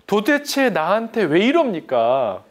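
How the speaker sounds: slow, drawn-out plea to God; pleading prayer. Retold or imitated. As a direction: stretch each word as if begging. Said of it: "이게 내 기도였어요".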